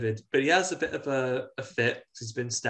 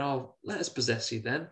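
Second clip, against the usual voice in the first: whispering; 6 dB quieter than usual. Retold or imitated. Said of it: "he's sort of whispering".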